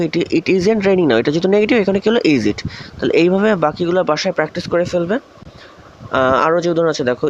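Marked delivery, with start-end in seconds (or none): 0.1-1.2 slow, word by word, "isn't" clearly marked; slow dictation. Shown as a demonstration. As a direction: spell out "It isn't raining now" slowly for the class. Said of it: "কিন্তু যে দেখো". (ধীরে ধীরে, প্রতিটি শব্দ আলাদা করে বলা)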